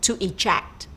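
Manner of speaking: "eject" stressed on JECT; stress on second syllable. Shown as a demonstration. Teacher introducing a verb, eject stressed on JECT. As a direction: say "eject" with the weight on its last syllable. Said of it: "The stress is on the second syllable".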